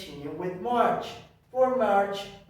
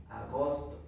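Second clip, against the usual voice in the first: softer gloss; understated echo in Spanish; translation aside; 3 semitones lower, 5 dB quieter than usual. Shown as a demonstration. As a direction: drop down to give the translation. Softer translation after drill call.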